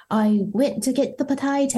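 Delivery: hammed-up, badly faked Irish accent. Shown as a demonstration. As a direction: put on a terrible Irish brogue. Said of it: "Kyle's going to have an Irish accent".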